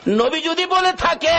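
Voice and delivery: retold cry. Wife crying out to her husband, high retold cry. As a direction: pitch the cry high, stretching the ends. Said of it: "বিবি একটা চিৎকার মারছে".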